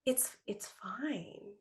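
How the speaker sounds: soft breathy whispered reassurance. Retold or imitated. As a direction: whisper it, barely voiced, slowly. Retold easy later talk with husband.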